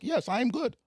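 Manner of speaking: high-pitched literal-minded foreigner; non-English speaker. Retold or imitated. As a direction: answer stiffly as someone missing the slang. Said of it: "a nigga who don't speak English".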